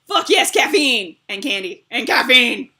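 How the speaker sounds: loud excited cheering. Real, not acted. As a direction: celebrate the caffeine. Excited about snacks.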